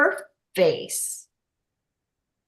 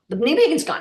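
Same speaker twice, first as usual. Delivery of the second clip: higher, a bit louder delighted news; imitating an amazed mom; joyful disbelief in the retelling; mom's excited amazement; 7 semitones higher, 4 dB louder than usual. Mom amazed her knee pain's gone.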